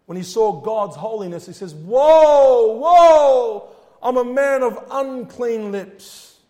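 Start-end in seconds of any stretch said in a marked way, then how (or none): 1.7-6.4 loud, high lament, slowing at the end; mourning cry. Acted. Prophet confessing unclean lips, loud mournful lament. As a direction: wail the woe, then sink into confession. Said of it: "This is mourning".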